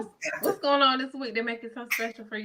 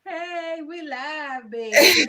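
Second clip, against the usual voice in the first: hyped live call; 7 semitones higher, 7 dB louder, much slower than usual. Real, not acted. Host hyping the live show.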